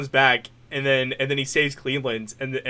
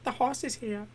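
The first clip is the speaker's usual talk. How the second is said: impression; 8 semitones higher, 10 dB quieter than usual. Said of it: "doing impressions".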